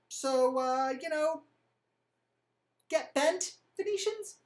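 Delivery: a lightly voiced cornered young ruler; sheepish excuses. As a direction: stall awkwardly, then snap a cheeky brush-off. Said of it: "Alexius is like".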